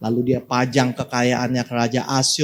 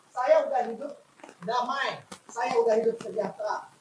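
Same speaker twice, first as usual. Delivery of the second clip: much softer, higher, wondering aloud; soft musing; 7 semitones higher, 11 dB quieter than usual. Acted. Preacher voicing the congregation's doubt, softly. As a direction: voice the listener's quiet doubt.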